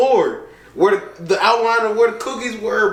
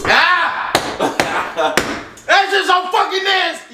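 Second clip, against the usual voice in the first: disgusted; 12 semitones higher than usual. Real, not acted. Disgusted after tasting candy.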